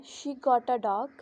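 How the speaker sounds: "she got a dog" as a statement, settling down on "dog"; falling intonation. Shown as a demonstration. Teacher repeating the first example to students, falling intonation. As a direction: let the voice fall at the end on "dog". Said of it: "sentence fall कर रही है".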